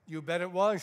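loud, proud "You bet it was"; emphatic exclamation. Retold or imitated. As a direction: punch it with pride. Emphatic retold reply.

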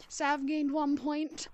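slow, drawn-out announcer call; game announcer voice. Pretend. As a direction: announce the score like a game show host.

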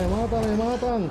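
panicking gamer. Real, not acted. Lo atacan los zombis.

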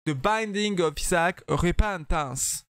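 slow, deliberate French-accented English. Shown as a demonstration. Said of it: "Avec l'accent français". (anglais lent avec accent français)

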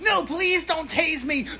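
high, slow, fading plea; frightened begging. Acted. Nerd facing security's taser, frightened pleading. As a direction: beg for mercy in a high voice.

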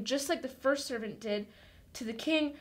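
ordinary talk, nothing marked

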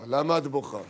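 low, soothing calm; a hint of a soothing husband. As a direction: settle her down gently. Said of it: "מרגיע אותה".

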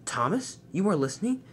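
understated shock, rising into a question. Acted. Spencer learns Thomas overheard him, mildly shocked. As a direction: ask in disbelief, lifting the pitch. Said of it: "Spencer was shocked".

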